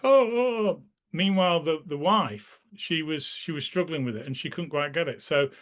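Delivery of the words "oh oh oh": high, bright gasps of realization, louder; mock childlike "oh" of discovery; children's dawning wonder. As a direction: imitate kids suddenly getting it. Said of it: "the children were like".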